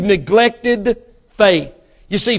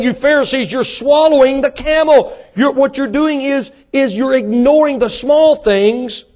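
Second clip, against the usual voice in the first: raised voice, emphatic sermon delivery; impassioned preaching; 5 semitones higher than usual. Real, not acted. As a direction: press the charge on the congregation. Preaching at full force.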